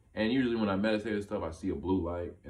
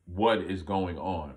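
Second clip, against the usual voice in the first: slow, louder, word-by-word bafflement; bewildered; 5 dB louder, slower than usual. Retold or imitated. Man seeing a little boy's room, bewildered. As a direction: act out stunned confusion, drawn out.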